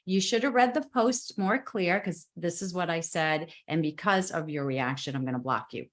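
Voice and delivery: gentle firm reply. Retold or imitated. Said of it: "And so I just gently said".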